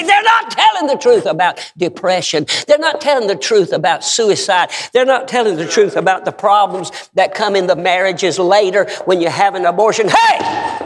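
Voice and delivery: forceful, hammering pulpit refrain; full-force preaching. Real, not acted. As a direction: drive each charge home to the congregation.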